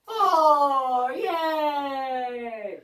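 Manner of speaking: put-on cheesy kid-show cheer; mock cheer. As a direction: cheer it like a kids' host.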